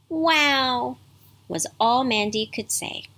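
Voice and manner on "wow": put-on high, breathy child's wow of wonder; awed wow. Mandy hearing of the mountain pond, amazed. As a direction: marvel at it like a little girl.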